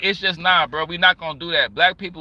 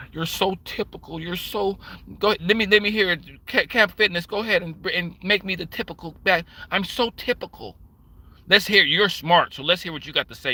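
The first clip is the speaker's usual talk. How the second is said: sarcastic comeback. Retold or imitated. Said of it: "looked back at her and went".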